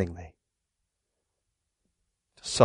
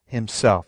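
"himself" set apart and weighted; stress on himself; 5 semitones lower than usual. Shown as a demonstration. Preacher pointing the congregation to one word, "himself" emphasized. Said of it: "the emphasis of that word".

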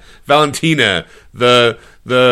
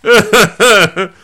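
mock excited friend; 5 semitones higher, 3 dB louder than usual. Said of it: "he goes, walks by and goes".

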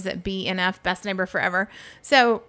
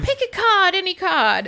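imitating British guy; 10 semitones higher, 4 dB louder than usual. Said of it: "So he's like".

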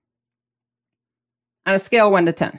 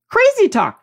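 high, loud mocking jab; scoffing; 11 semitones higher, 4 dB louder than usual. Real, not acted. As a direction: scoff at the nonsense. Scoffing at critics.

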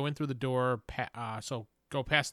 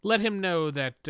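intimidating; 4 semitones higher, slower than usual. Acted. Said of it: "are you trying to intimidate the orc?".

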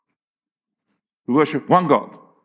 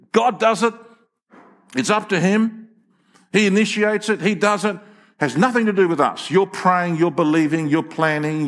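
raised, urgent protest; insistent objector; 3 semitones higher than usual. Retold or imitated. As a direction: argue it as someone dismissing all human effort. Voicing those who say all of God.

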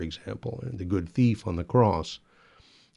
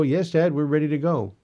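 higher, lightly voiced children's reply; kids answering dad; 5 semitones higher than usual. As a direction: imitate kids chiming back to their father. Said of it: "every Sunday I would be".

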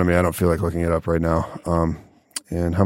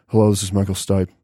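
a singer's voice. Retold or imitated. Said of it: "But when he talks, he has this very".

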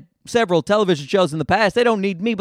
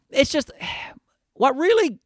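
whispered sigh; 6 semitones higher than usual. Real, not acted. Comedian sighs into his gripe about a singer, whispered. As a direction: breathe it out on a sigh. Sighing whisper before rant.

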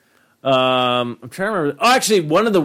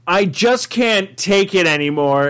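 mock despair; 4 semitones higher than usual. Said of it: "It was just like".

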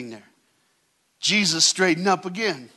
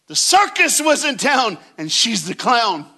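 preaching at full force; 7 semitones higher, 5 dB louder than usual. Acted. Preaching builds to a peak.

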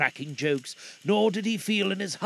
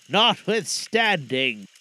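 unearthly voice; 4 dB louder, slower than usual. Acted. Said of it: "the spectre's voice disturbed the very marrow".

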